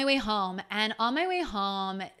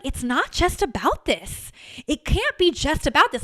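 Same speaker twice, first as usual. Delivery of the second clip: retold anger; 6 semitones higher than usual. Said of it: "shocked by my own anger".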